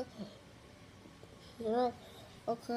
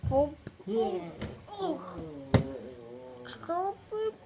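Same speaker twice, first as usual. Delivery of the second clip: mock pleading; 6 semitones higher, much slower than usual. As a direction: fake a desperate plea. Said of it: "I was just pretending".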